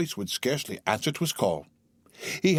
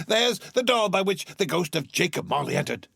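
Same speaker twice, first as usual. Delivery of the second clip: high, rising to a full laugh; joyful laughing Scrooge; 10 semitones higher than usual. Acted. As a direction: laugh with pure relief.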